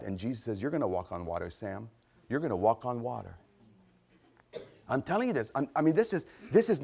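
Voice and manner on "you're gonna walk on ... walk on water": lower, softer voice of quiet certainty; calm assurance. Acted. Jesus answers doubting Sam, calm and assured. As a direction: answer doubt gently and low.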